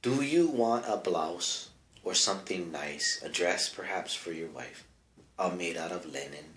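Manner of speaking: the white trader offering the native a dress, in a low mild put-on voice; mock trader voice. White trader pitching a linen dress, lightly voiced low. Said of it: "the whitey's like".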